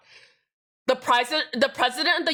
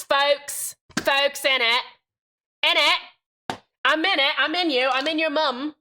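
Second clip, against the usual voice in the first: put-on British accent; 3 semitones higher than usual. Streamer clowning for chat, mock British accent. Joking British impression resumes, higher.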